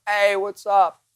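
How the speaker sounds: high, loud cheery shout back; friendly yell. Retold or imitated. Host shouting hello back to fans who recognize him, loud and high. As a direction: call out a greeting while running past. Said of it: "And I yell".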